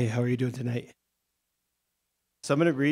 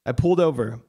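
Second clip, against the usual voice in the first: measured literary reading voice; story reading; 4 dB louder than usual. Acted. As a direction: read your prose aloud to the room. Author reads own short story.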